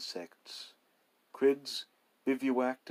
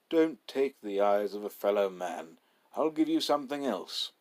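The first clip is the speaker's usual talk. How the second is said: pleading bargain; 5 dB louder than usual. Acted. Narrator begs.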